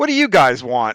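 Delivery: put-on snarky tone. Speaker retelling how a waitress greeted him and his buddies, mock-snarky waitress voice. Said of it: "just in the snarkiest voice".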